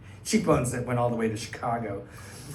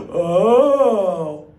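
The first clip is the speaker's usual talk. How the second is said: startled oh; 5 semitones higher, 9 dB louder than usual. Retold or imitated. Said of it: "this lady comes and just goes".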